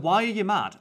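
high, loud incredulous question; mock baffled protest. Boyfriend asking upset girlfriend, mock incredulous.

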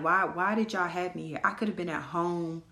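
getting madder as it goes; worked up, getting mad. Real, not acted. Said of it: "I'm getting mad thinking about it".

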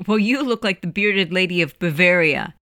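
amused teasing comeback; a touch of laughter; laughing. Acted. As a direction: fire back, tickled by it. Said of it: "Eddie started laughing".

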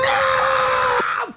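piercing high scream; high shriek. Acted. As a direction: let out a shrill shriek. Sound effect drop.

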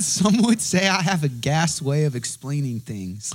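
quoting slowly. Retold or imitated. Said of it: "he said".

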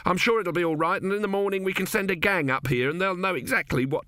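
worried workman wants to go home; nervous brother Pataclusp. Acted. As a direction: talk him into leaving, uneasily. 2A pleads to leave.

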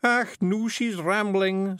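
high, loud, slow Scots lament; Scottish Feegle, exasperated. A narrator's reading. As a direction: despair of her in a Scottish voice. Voices Rob, a Feegle.

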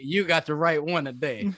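a lightly voiced tough guy; a hint of menacing swagger; imitating the shooter. Host voices the man who shot, with mock swagger. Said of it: "And he was like".

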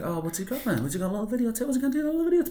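high, sing-song gloating villain; mocking taunt. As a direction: taunt them in a high, teasing voice.

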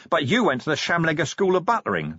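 a touch of giddy amusement; giggling. A narrator's reading. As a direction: say it as if tickled, voice lifted. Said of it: "Vimes giggled".

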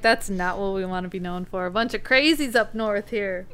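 broad Minnesotan vowels; Minnesota accent. Retold or imitated. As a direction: lean into the Minnesota twang. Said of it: "Do you hear my accent come out there?".

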